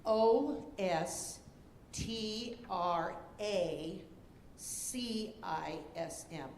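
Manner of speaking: spelled out. Shown as a demonstration.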